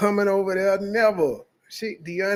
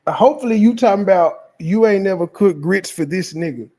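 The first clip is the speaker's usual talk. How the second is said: louder, ranting in disbelief; heated rant; 7 dB louder than usual. Real, not acted. Scolding the woman who never cooked grits, loud heated rant. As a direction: lay into her, loud and incredulous.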